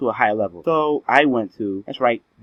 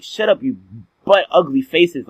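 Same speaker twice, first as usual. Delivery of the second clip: mock angry kid; 2 semitones higher, 3 dB louder than usual. Boy snapping at teasing classmates, hammed-up annoyed shout. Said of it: "And I was like".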